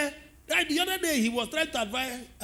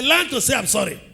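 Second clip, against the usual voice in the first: preaching shout; 6 dB louder than usual. Acted. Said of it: "Tell your neighbor, say".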